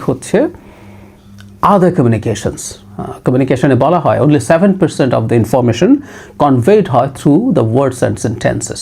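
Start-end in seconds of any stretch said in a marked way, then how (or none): 4.2-8.8 slow quoted maxim. Shown as a demonstration. Quotes communication maxim slowly.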